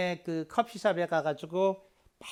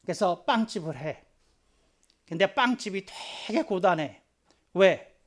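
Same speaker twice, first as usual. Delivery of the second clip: normal talking voice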